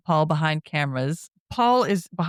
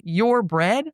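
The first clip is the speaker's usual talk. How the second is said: mild mock yell, raised pitch; restrained, higher retold shout; imitated yelling; 5 semitones higher than usual. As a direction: quote the yell with a lift at the end. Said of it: "he's yelling".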